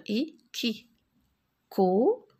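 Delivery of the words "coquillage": "Coquillage" in three syllables with long gaps. Shown as a demonstration. Teacher showing how coquillage is built, syllable by syllable. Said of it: "Je forme des syllabes".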